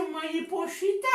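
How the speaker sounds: gently calling Mariposita; soft sweet call. Shown as a demonstration. Teacher showing her sweet soft voice calling the girl, gentle call. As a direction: coax her name out softly. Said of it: "Mi voz es suavecita".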